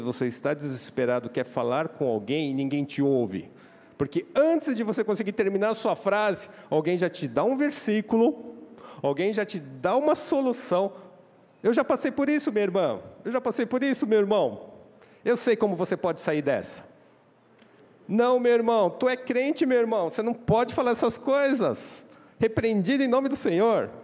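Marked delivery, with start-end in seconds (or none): 4.0-16.9 preaching. Acted. Preaching at rising force. 18.1-23.9 high, loud mock churchy scolding; mock pious rebuke. Churchgoer scolding a struggling brother, high loud mock rebuke.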